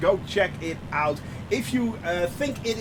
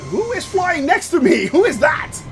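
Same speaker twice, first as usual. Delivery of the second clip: surprised; 6 semitones higher, 5 dB louder than usual. Real, not acted. Spots plane beside him.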